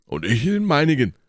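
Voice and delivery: high, swooping call; Porthos. A narrator's reading. Porthos reports his own target, calling out.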